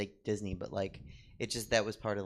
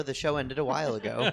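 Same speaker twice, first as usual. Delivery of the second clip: laughing through a joke quote; 2 semitones higher, 5 dB louder than usual. Retold or imitated. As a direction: giggle through the quoted line.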